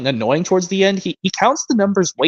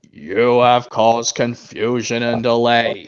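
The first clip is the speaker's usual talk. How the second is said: stern Sir Tom; 4 semitones lower, slower than usual. Retold or imitated. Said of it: "Michael Brandon version".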